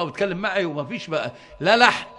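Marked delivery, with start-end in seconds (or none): 1.6-2.1 emphatic exclamation. Real, not acted. Exclaims no grammar errors.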